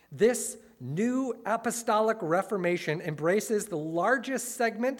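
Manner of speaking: grand, proclaiming quote; excited. Retold or imitated. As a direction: read it like a proud headline. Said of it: "It says this in, in excitement".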